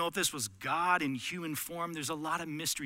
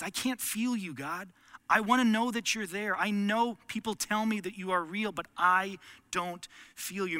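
longing plea; 4 semitones higher, 4 dB louder than usual. Retold or imitated. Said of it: "Maybe you say the phrase".

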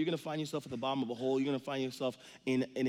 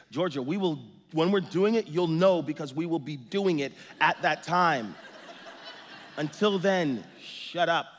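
louder, fed-up patient-then-snappy dad; exasperated dad; 2 semitones higher, 4 dB louder than usual. Retold or imitated. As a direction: lose patience with a nagging kid. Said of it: "That's what I say in my heart".

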